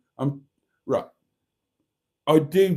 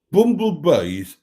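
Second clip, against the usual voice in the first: mock Black Country accent, louder than usual; 6 semitones higher, 9 dB louder, slower than usual. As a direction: put on a playful Black Country voice. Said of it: "has to be said in a Black Country accent".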